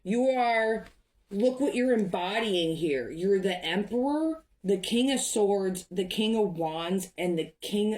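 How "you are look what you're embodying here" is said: getting emotional. Real, not acted. Reader moved while telling viewer they bring hope, emotional. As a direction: let the feeling rise as you promise them hope. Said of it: "I'm getting emotional".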